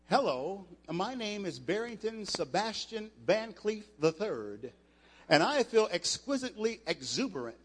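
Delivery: lightly mock a stiff upper-class speaker; stuffy posh gentleman. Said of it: "White people talk like this".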